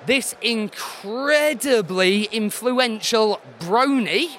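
slow, deliberate quizmaster read; quiz clue reading. Acted. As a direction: spell out the clue slowly. Reads quiz clue slowly.

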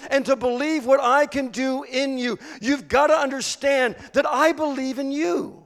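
emphatic, driving exhortation; impassioned preaching as Jesus. Acted. Jesus urging Peter to believe he can follow, impassioned exhortation. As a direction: press each point home as a preacher voicing Jesus.

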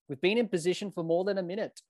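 lightly imitated South African umpire; South African accent. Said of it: "That's my best South African accent there".

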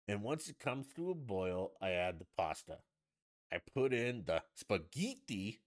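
mock chef saying SPAGHETTI with a put-on accent; TV chef, accented ethnic words. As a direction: lightly mimic a TV cook, Italian accent on spaghetti. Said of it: "they say it with an accent".

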